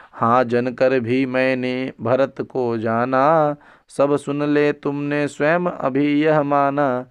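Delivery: slow, drawn-out chanting of verse; verse recitation. Acted. Teacher recites Kaikeyi's verse before explaining it, slow recitation. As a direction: stretch each line out in measured recitation.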